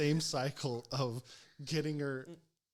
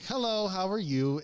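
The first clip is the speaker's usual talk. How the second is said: higher, louder friendly hello; nice greeting; 8 semitones higher, 6 dB louder than usual. Retold or imitated. EMT greets an elderly patient being taken home, nice and upbeat. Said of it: "I started off nice".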